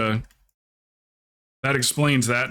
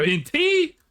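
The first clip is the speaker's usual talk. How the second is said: disbelieving. Retold or imitated. People baffled by sweet tea.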